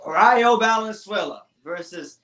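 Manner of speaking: slow, drawn-out fight announcer intro; ring announcer voice. Pretend. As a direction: announce it like a boxing MC. S0 mock-announces the main event.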